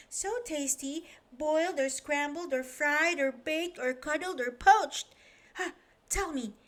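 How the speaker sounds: high, fast eager chatter. Acted. Chatterbox chatting to Mister Strong about eggs, high and eager. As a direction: babble happily about eggs. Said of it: "it's just the same".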